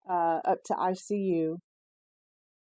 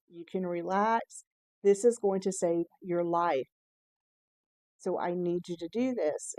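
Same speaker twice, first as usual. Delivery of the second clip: reassuring. Retold or imitated. Doctor calming patient.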